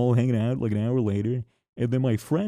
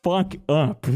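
imitating friend's snap; 6 semitones higher, much slower than usual. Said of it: "he turns to me and he says".

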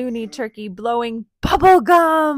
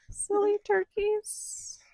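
whispering; 11 semitones higher, 6 dB quieter, slower than usual. Acted. Gentle story aside.

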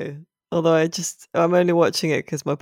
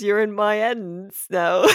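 mock poor English accent; 4 semitones higher than usual. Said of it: "he says".

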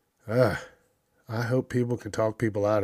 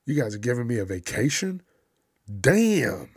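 gleeful covid; 3 semitones higher than usual. Retold or imitated. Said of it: "covid's gonna be like".

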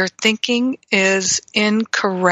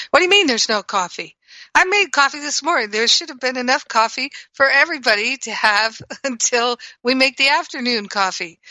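mock indignation; 3 semitones higher than usual. Shown as a demonstration. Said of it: "So that's a reaction".

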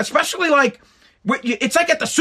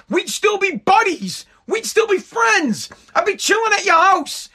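rising exasperated rant; 6 semitones higher than usual. Real, not acted. Ranting about old schoolmates.

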